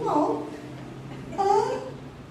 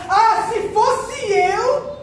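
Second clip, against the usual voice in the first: mock know-it-all; 6 semitones higher, much slower than usual.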